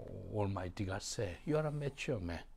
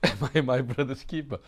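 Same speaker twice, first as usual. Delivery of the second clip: a touch of Cain's sneering, loud; mocking Cain; 3 semitones higher, 8 dB louder than usual. Preacher mimics Cain answering God, lightly sneering. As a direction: toss the question off like careless Cain. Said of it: "He speaks strangely".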